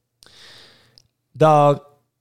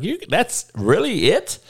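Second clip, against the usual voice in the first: mock angry rant; 8 semitones higher than usual. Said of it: "I'm like".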